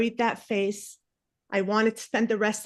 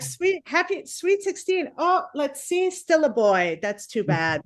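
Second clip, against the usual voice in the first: mock disappointed parent; 6 semitones higher than usual. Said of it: "and you're like".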